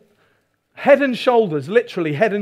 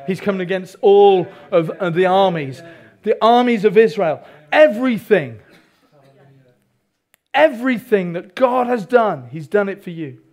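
loud, emphatic sermon delivery; forceful preaching; 4 dB louder than usual. Real, not acted. Preacher tells the congregation of the armies of Israel, forceful preaching. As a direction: drive it home to the congregation, loudly.

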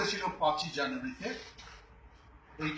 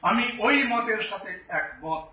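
slow, deliberate declaration; clear and emphatic. Real, not acted. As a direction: state it clearly, word by word. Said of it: "খুব স্পষ্ট কণ্ঠে বলতে চাই". (স্পষ্ট কণ্ঠে, ধীরে জোর দিয়ে)

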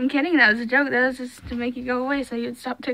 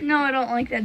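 laughing; faster than usual. Real, not acted. Brother scaring her.

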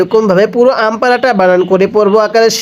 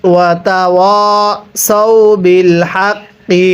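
slow tilawat with drawn-out final vowel; melodic recitation; slower than usual. Shown as a demonstration. Teacher recites the phrase for students in melodic tilawat. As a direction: recite it with melody, stretching হাক্কি. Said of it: "কিভাবে শিখব?".

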